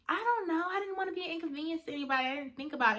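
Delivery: embarrassed, brushing it off; sheepish self. Retold or imitated. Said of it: "And I'm like".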